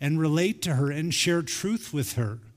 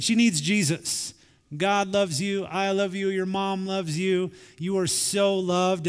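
reassuring dad; 4 semitones higher than usual. Retold or imitated. Dad comforting bullied daughter.

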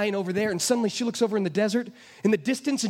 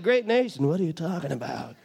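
lower, laughing disbelief; disbelieving teen; 7 semitones lower than usual. Retold or imitated. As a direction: scoff like a teenager. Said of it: "He's like".

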